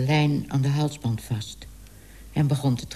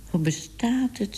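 amazed question; 6 semitones higher than usual. Acted. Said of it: "zei Tibbe".

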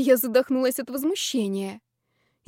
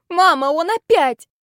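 put-on much higher, louder childish complaint; whiny tattling; 8 semitones higher, 8 dB louder than usual. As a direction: tattle to mom like a kid. Complaining to mom by phone.

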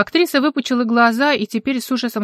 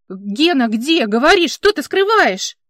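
rising, louder accusing demand; accusing demand, higher and louder; 5 semitones higher, 6 dB louder, slower than usual. Acted. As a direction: press him hard for the truth. Mara demands answers.

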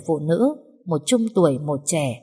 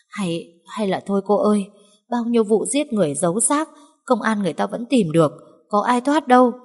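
frightened; 3 semitones higher than usual. Acted. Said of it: "hoảng sợ đến mất hết cả bình tĩnh".

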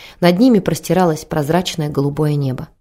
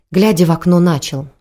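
ordinary delivery, nothing marked

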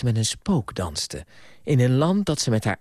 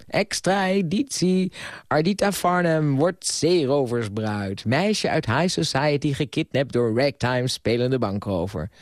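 mock headline; 3 semitones higher than usual. Mock newspaper headline announcement.

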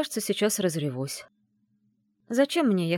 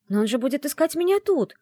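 objecting; 8 semitones higher, 4 dB louder than usual. A narrator's reading. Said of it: "возразила я".

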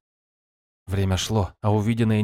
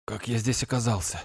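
weak and quiet; 6 dB quieter than usual. Acted. Weak hero, eyes closed.

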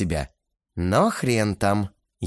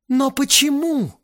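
tearful why; 4 dB louder than usual. A narrator's reading. Lena tearful question.

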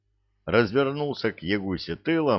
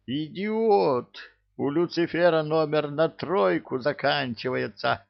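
angry yell; 7 semitones higher than usual. A narrator's reading. Demon yells at drunk caller.

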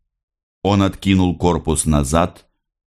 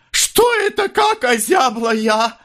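exclaiming. A narrator's reading. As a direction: cry out as if suddenly chilled. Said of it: "воскликнула".

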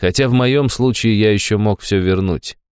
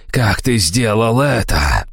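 slower, pressing on ты; slow insistent demand; 4 semitones higher, slower than usual. Acted. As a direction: drag the question out in rage. Old man demands answers.

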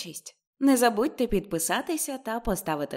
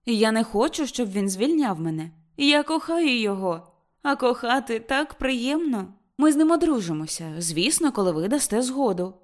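high, loud declaration of love; ardent insistence; 6 semitones higher, 5 dB louder than usual. Acted. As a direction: insist to mother. Ruth insisting loudly.

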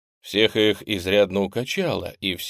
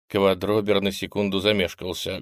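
usual speaking voice

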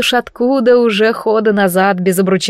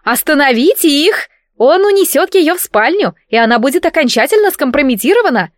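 yelling; 6 semitones higher than usual. Acted. Princess to the crowd, alarmed high yell. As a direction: shriek for help over the crowd. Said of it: "заорала громче всех принцесса Леюшка".

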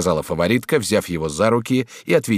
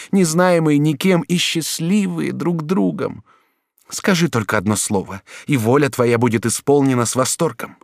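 put-on passionate, higher duchess voice pleading with her young lover; 8 semitones higher, 4 dB louder than usual. A narrator's reading. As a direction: lure him with tender promises. (герцогиня страстно уговаривает юношу)

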